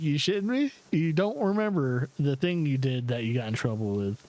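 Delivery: acted-out exasperated parent; retold incredulity. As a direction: start high in exasperated disbelief, then settle. Retold exasperation at forgetful child.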